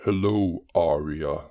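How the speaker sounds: understated villain greeting; villainous uncle saying hello; scary. Acted. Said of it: "Like, so scary".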